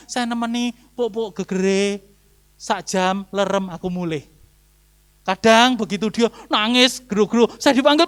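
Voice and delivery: ordinary talk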